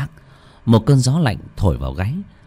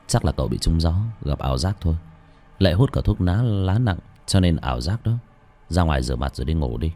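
lightly voiced old master; 4 semitones lower, 4 dB quieter than usual. Old master dismisses Khoai.

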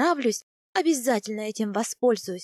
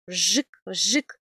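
sharp spoken "vzhik" of a blade; knife snip imitation; 3 semitones lower, 4 dB louder than usual. A narrator's reading. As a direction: imitate a knife cutting through hair. Narrator imitates a cutting knife. (звук ножа: «вжик»)

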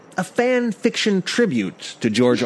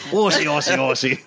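Australian accent. Shown as a demonstration. Jokes about his drifting accent.

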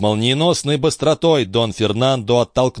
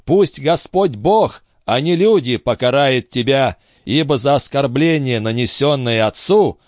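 put-on pleading old father; 4 semitones higher than usual. Fallen father calls on God.

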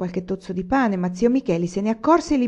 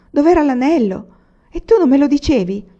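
higher and louder, eager surprise; surprised; 7 semitones higher, 8 dB louder than usual. A narrator's reading. Olì thrilled by the silver cross, high and loud surprise. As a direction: burst out in amazed delight. Olì excited about the treasure.

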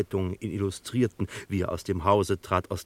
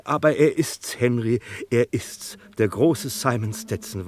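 excited insistence; 4 semitones higher, 4 dB louder than usual. Acted. Gloster insists it is Stetson.

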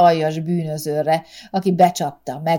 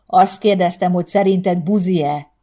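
louder, insistent repeat; raised drunken voice; 5 dB louder than usual. Acted. Drunk husband repeating his question to wife, louder. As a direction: push the question harder. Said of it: "emelte fel Benedek".

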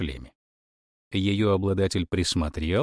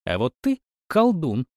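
accusing; 6 semitones higher than usual. A narrator's reading. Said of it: "обличающе ткнула пальцем".

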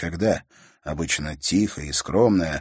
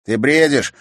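louder annoyed dismissal; angry retort; 7 semitones higher, 8 dB louder than usual. A narrator's reading. Brother angrily dismissing his sister's teasing. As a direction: cut her off angrily. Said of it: "рассердился Игорь".

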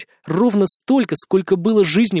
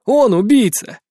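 shouting; 5 semitones higher, 4 dB louder, slower than usual. Acted. Narrator shouts accusation.

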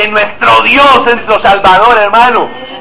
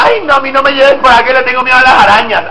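mock fearful whine; faster than usual. Mocks fearful Christian.

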